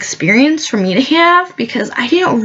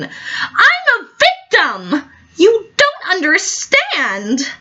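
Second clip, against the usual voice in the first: much higher, slow hammed-up sob; fake crying; 8 semitones higher, slower than usual. Guest fake-sobs her victimhood to the audience. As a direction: whimper it like a wounded martyr.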